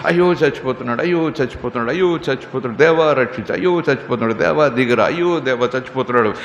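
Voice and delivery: a put-on cry of pity over a dying neighbour; mock wailing. Preacher mimics a stingy believer wailing, mock lament. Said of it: "ఏం ఏడుస్తున్నాను".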